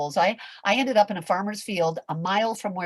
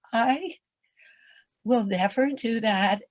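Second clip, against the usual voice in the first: laughing vow; 8 dB louder, slower than usual. Retold or imitated. Vowing never again, laughing.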